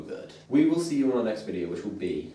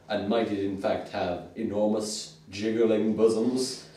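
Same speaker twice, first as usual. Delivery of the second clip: melodramatic narration, slowing toward the end; hammed-up vintage narrator; old-school comic-book narrator. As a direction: pose it as grave, breathless speculation. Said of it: "very old school comic book narrations".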